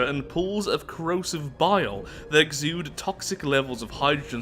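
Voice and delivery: measured read-aloud narrator voice; story narration. Acted. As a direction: read the lore out evenly, like an audiobook. Reads game event text.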